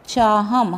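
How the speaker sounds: चाहम falling, ending on a clear closed m; nasal as m. Shown as a demonstration. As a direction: close चाहम firmly on the म sound. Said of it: "उसका उच्चारण म".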